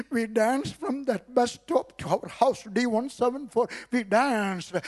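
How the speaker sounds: preacher recalling dancing home, high and joyful. Real, not acted. Joyful recounting.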